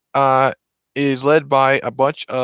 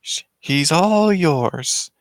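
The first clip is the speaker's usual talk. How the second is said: acted shelter worker; 5 semitones higher, much slower than usual. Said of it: "the person's like".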